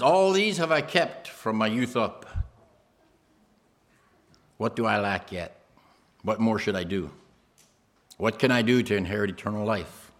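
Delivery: a rich man pressing Jesus for an answer; earnest plea. Acted.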